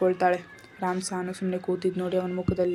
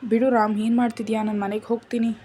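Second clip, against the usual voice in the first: louder, pouting protest, wriggling free; a wife pushes away her husband, louder and sulky; 3 semitones higher, 6 dB louder than usual. Acted. Wife wants to go home to her mother, pouting and louder.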